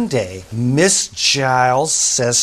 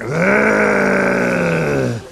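growl; 3 semitones higher than usual. Acted. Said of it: "Sarah went".

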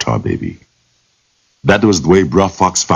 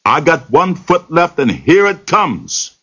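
much higher, shaky-sounding warning, slowing at the end; a scared rabbit bluffing a threat; 13 semitones higher than usual. Acted. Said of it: "getting scared now, shaking now".

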